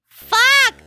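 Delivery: loud sudden high yell; high shouted curse. Real, not acted. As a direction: blurt it out in frustration. Game fail outburst.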